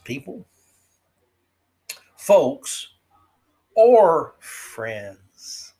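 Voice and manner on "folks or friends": mock prissy. Mocking the approved replacement words.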